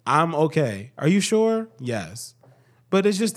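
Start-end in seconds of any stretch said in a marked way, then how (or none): 1.0-1.7 higher-pitched checking question; mock questioning. Acts out partner questioning him. 1.8-2.3 low, soft yes; mock reassurance. Acts own answer to partner.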